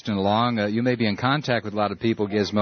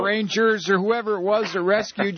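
high-pitched mock gushing over a hero; gushing TV viewer; 10 semitones higher than usual. Host mimicking viewers cheering Jessica Lynch, high mock gushing. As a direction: play a dim, star-struck viewer, pitched way up. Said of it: "eighty-five percent of us will sit there".

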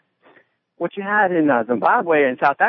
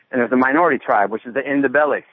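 out of breath. Real, not acted. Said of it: "I'm working out here. I'm a little winded".

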